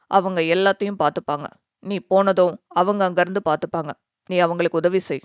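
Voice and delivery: calm him down kindly; reassuring father. Acted. Father reassuring the worried young man, lightly voiced.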